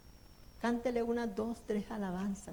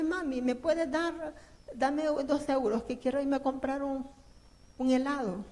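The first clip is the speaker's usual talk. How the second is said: preacher imitating a child asking for money, pitched up; pleading child; 3 semitones higher than usual. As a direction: beg like a kid for ice cream. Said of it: "su hijo viene y le dice".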